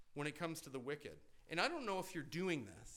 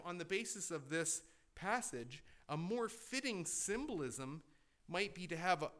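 normal talking voice

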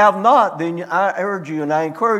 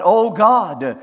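a pleading cry to God, pitched higher; 3 semitones higher than usual. Retold or imitated. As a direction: beg God for an answer, voice lifted. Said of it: "you begin to cry out unto God".

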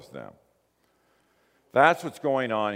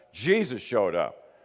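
normal talking voice

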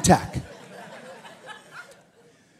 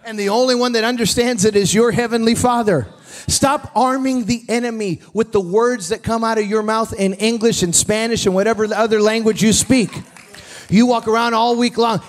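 loud, raised preacher's voice; full-force preaching; 5 semitones higher, 6 dB louder than usual. Real, not acted. Preacher urges church to stop arming the enemy, forceful exhortation. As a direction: drive it home to the congregation, loud and high.

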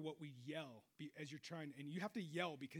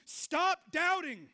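louder, higher, very slow command; stern rebuke; 10 semitones higher, 12 dB louder, much slower than usual. Retold or imitated. The demon of doubt commanding, slow stern order. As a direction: spell out each word as an order. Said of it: "He's going".

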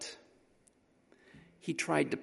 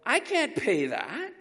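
put-on slow, higher shocked kid voice; a boy caught out by the price; boy's dismay; 6 semitones higher, slower than usual. Boy protesting the price to the auctioneer, dismayed. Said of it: "And the boy goes".

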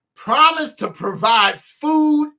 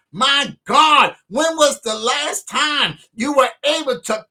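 preaching at full force; 2 semitones higher than usual. Acted. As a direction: shout it like a revival. Preacher exhorts praise.

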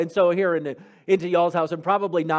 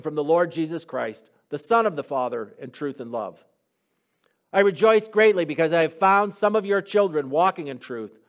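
measured, louder formal reading of the letter; scripture reading; 4 dB louder than usual. Acted. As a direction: read the epistle aloud to the class, with weight. Reads the scripture letter aloud.

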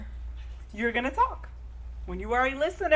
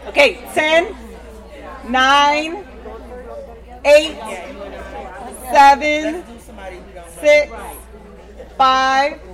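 slow counted-out numbers, raised voice; loud countdown; 3 semitones higher, 7 dB louder, much slower than usual. Real, not acted. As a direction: count down loudly for the room. Counting down aloud to room.

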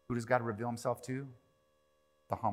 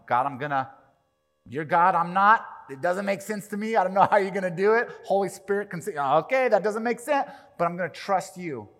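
earnest prayer voice; 5 semitones higher, 7 dB louder than usual. Acted. Acting a humble believer's prayer.

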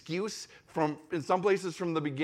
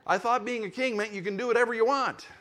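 Simba; 6 semitones higher, 4 dB louder, faster than usual. Acted. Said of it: "what Simba said in The Lion King".

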